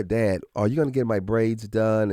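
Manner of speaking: put-on lightly childlike, deliberate ask; clear kid request. Daughter asking dad clearly, lightly childlike. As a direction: ask very clearly like a little girl. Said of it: "Charlie was very clear".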